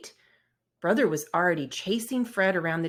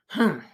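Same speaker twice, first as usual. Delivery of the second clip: short, louder sulky humph; sulky grunt; 6 dB louder than usual. Acted. Sulking Brother answering Sister with a grunt. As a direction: grunt off the question. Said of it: "grunted brother".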